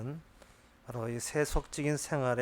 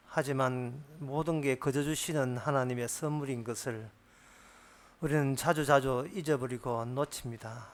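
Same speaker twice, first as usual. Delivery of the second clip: spoken prayer. Acted. Pastor leads closing prayer.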